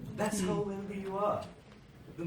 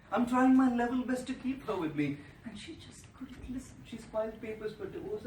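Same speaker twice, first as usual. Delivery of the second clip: retold sad plea; 6 dB quieter than usual. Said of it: "He said".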